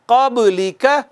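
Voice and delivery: क़ब्ली का with bounced ब; qalqala echo. Shown as a demonstration. Teacher repeating the correct echoing ब. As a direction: rebound the ब of क़ब्ली. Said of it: "यहाँ पे कलकला होगा".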